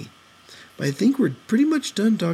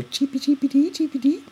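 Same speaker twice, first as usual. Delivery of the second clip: high squeaky chirping; helium voice; 13 semitones higher than usual. Pretend. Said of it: "Can I sing now?".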